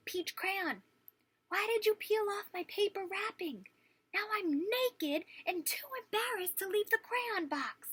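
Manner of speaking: high, embarrassed little crayon; Peach Crayon voice. Acted. Naked Peach Crayon begging Duncan for clothes, high. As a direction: squeak it out, mortified and pleading.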